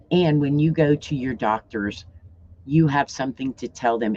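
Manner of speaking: speaking with a half-numb tongue; slightly slurred, numb mouth. Real, not acted. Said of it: "And don't mind me, since I'm not really drooling".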